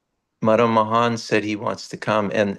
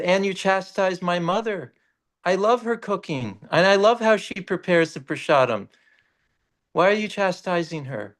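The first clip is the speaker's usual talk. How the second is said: put-on higher, plaintive child's complaint; hurt child deity; 9 semitones higher than usual. Boy deity in a dream defending his mother, plaintive. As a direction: gently scold the saint as a little boy.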